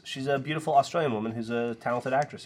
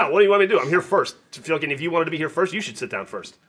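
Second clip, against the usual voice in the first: mildly hammed-up arguing, pitched up; raised-voice mock protest; retold indignant protest; 3 semitones higher than usual. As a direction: re-enact standing your ground in a seat dispute. Acted quarrel over cinema seat.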